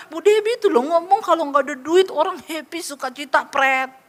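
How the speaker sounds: quick scoffing imitation of a doubter; mocking sceptic. Sceptical listener scoffs at the preacher's happiness claim, mocking. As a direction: parrot the claim, then dismiss it.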